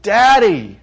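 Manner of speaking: high, loud scream of Daddy; child screaming Daddy. Retold or imitated. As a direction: cry out Daddy like a scared child. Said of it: "screams out".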